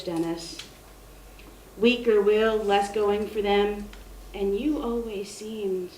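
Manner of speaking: measured elegy read aloud, addressed to a lost friend; poetry reading. Acted. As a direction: read it as a poem, pausing between phrases. Reads own elegy poem aloud.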